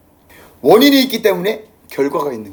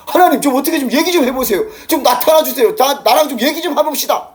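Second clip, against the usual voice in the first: higher, pleading plea to God; pleading Job; 6 semitones higher than usual. Retold or imitated. Job pleading with God, a lightly voiced high plea. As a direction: beg God to show himself, raised pitch. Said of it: "이렇게 이야기를 해요".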